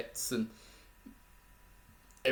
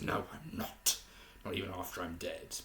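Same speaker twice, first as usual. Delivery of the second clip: breathy hushed whisper, barely voiced; 3 semitones lower, 7 dB quieter than usual. Reviewer imitating Tiberius in a hushed whisper. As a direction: breathe the line out as a secret. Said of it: "almost like a whisper and almost like this very hushed tone".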